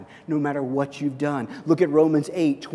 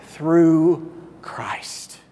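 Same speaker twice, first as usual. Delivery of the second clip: whispered. Acted. Pastor ending the verse to the church, whispered. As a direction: drop to a whisper on the last words. Closing a scripture reading.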